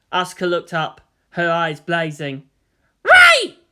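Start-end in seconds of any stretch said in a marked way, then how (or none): 3.0-3.6 loud, higher snarl. A narrator's reading. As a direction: snarl it with fury. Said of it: "she snarled".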